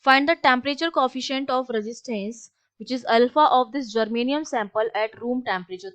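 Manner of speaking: slow, deliberate dictation pace; reading the question aloud. Acted. Teacher reading a physics question to her class, slow and measured. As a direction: spell the problem out slowly for students to copy.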